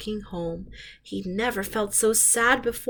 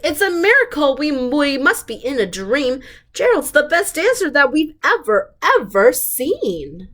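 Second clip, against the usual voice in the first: higher, louder astonished cry; amazed shout; 6 semitones higher, 3 dB louder than usual. A narrator's reading. Animals amazed by Gerald's dancing, higher excited shout. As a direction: gasp out wonder at the sight. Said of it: "They shouted".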